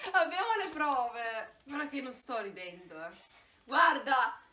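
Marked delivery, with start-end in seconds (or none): 0.0-1.6 laughing through the words; nervous laugh. Real, not acted. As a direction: laugh nervously while talking. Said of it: "Mi viene da ridere dal nervoso!".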